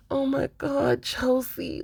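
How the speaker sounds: high-pitched groaning disbelief; exasperated pleading. Pretend. Viewer addressing Chelsea on the show, high exasperated plea. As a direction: plead with her from up high, fed up.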